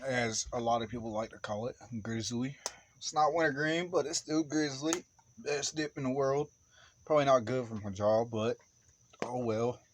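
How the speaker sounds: talking around a mouthful of dip; words muffled by chew in cheek; chewing tobacco. Real, not acted. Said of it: "get me a some chew in my mouth".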